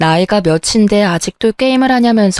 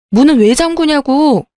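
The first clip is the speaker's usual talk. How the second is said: retold yelling; 5 semitones higher than usual. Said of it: "소리 질렀어요".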